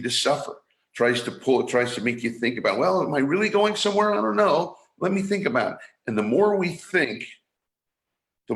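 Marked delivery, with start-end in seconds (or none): 2.8-5.8 higher, fast, fretful mock worrying; anxious inner voice. Speaker mimics the doubting voice in our heads, fast and anxious. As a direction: rattle it off like a nervous mind.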